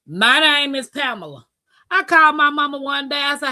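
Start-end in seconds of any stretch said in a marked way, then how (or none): 0.1-1.5 "Pamela" said PAM-uh-luh; English pronunciation. Retold or imitated. Insisting on her own name to passengers, "Pamela" as PAM-uh-luh. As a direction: stress the first syllable of "Pamela", PAM-uh-luh. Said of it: "Stop calling people name wrong".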